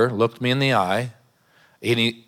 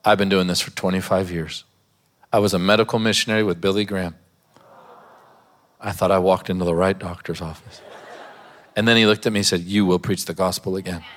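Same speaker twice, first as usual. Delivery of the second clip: tearful doctor; 3 semitones lower than usual. Retold or imitated. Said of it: "He said".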